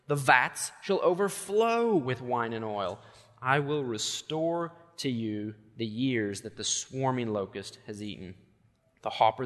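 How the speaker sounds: solemn Bible reading to the congregation; scripture reading. Acted. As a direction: read the prophecy aloud with weight. Reads Joel scripture aloud.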